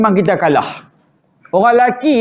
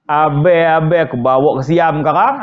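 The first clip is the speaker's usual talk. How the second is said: soft coaxing wife; 6 semitones lower, faster than usual. Retold or imitated. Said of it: "main buah lembut".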